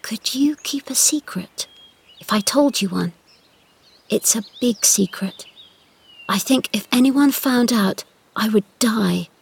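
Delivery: hushed, half-whispered secret; secretive whisper. Acted. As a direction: whisper it like a dangerous confession. Mary confides a secret.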